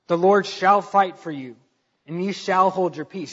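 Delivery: loud, ringing proclamation; Moses commanding. Retold or imitated. Moses booming out to his frightened people, bold proclamation. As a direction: call out boldly to calm the crowd. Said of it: "And Moses said to him".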